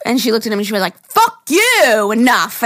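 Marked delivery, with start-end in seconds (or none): 1.1-2.6 retold yell, much higher and a bit louder; hammed-up angry yell, pitched way up; imitating her yelling. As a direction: impersonate a cracked-out lady yelling at a cop. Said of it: "And then started yelling at him".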